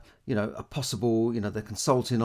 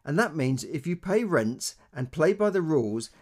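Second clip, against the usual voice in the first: Theresa May quote; 4 semitones higher, 4 dB louder than usual. Retold or imitated. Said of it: "She says".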